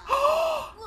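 sharp high intake of breath; shocked gasp. Real, not acted. Player learning that Wok stinks, shocked gasp.

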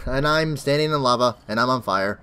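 hoarse throat from a cold; raspy sick voice. Real, not acted. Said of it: "my sick voice, throat raspiness".

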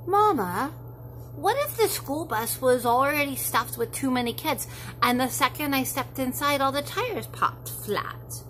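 put-on a child spinning what-ifs for mom; worried child.

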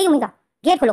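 loud call through the door; calling at the door to open up. Retold or imitated. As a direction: bang on the door and call her out. Knocking, calls her to open.

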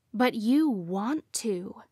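slow accusing voice. Acted. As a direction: accuse her slowly. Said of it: "she accused".

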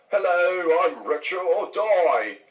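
hammed-up greeting as himself; exaggerated self-introduction. Playing himself as next door neighbor, exaggerated greeting. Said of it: "I'd be like".

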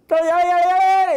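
high, loud gleeful yeah yeah; excited greeting. Retold or imitated. Greeting the running dog, high excited yelps. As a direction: greet the dog like an overjoyed kid. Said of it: "and I go".

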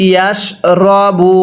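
ইয়াশ with a heavy, thick শ; correct pronunciation. Shown as a demonstration. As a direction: say ইয়াশ রবু with the শ made full and heavy. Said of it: "এই শিনটা আমরা মোটা করে পড়ব". (মোটা শ দিয়ে ইয়াশ রবু)

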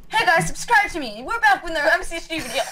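bright youtuber intro. Pretend. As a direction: hype it up like a channel intro. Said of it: "started a video with".

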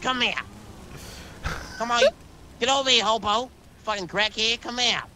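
angry yelling. Acted. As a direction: bark at him to come back. Chasing the crackhead, yelling.

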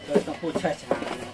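slow and drawn out; slow it right down for the viewers; deliberately slow explanation; speaking slowly. Real, not acted. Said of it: "ที่พูดช้าเพราะอะไรรู้ไหม".

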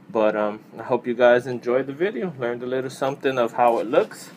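talking inside closed helmet; through a full-face helmet. Real, not acted. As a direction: voice behind helmet chin bar. Seen 5: Full-face helmet worn with chin bar over mouth; removed by 10.9.

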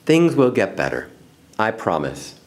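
understated motherly comfort; sighing reassurance. Acted. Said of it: "her mother sighed".

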